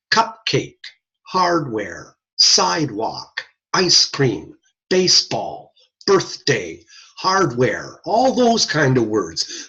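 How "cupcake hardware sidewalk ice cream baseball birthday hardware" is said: "Cupcake", "hardware", "sidewalk" with both syllables weighted evenly; even syllable stress. Shown as a demonstration. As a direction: give each half of "baseball", "birthday", "hardware" equal weight. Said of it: "even emphasis on both syllables".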